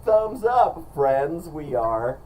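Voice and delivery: chirpy mock influencer voice; fake-positive YouTuber. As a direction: imitate an overly upbeat YouTuber. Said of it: "Some sort of aggregate of thoughts".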